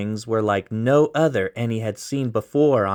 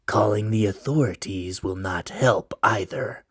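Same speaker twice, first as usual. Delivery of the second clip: mysterious stranger; 4 dB quieter than usual. Acted.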